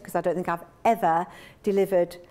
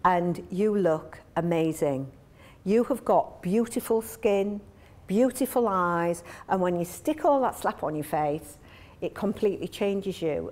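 coaxing partner; 3 semitones lower than usual. Retold or imitated. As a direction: charm her into dropping the makeup. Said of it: "And he goes".

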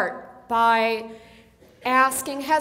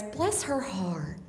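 slow drawl; 2 semitones lower, 8 dB quieter, much slower than usual. Shown as a demonstration. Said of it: "it's the phrase".

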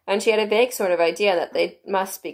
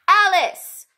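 White Rabbit shrill; 13 semitones higher, 7 dB louder than usual. A narrator's reading. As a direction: top of a shrill little voice. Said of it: "at the top of his shrill little voice".

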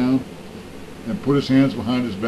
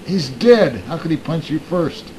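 higher-pitched, mock-incredulous questioning; incredulous retort; 4 semitones higher, slower than usual. Cop questioning the man who hit a corpse, incredulous. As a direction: play a baffled cop, pitched up. Cop's baffled retort in joke.

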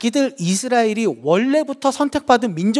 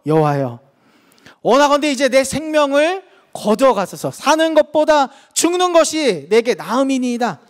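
bitter plea; 6 semitones higher than usual. Acted. Jonah begging to die.

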